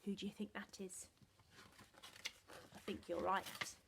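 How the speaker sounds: soft fast whisper; whispered question to listeners. A narrator's reading. Aside to children.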